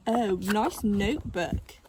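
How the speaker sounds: slow sneering fake praise; sarcastic. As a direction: say it sweetly but mean the opposite. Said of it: "said a bit of weed".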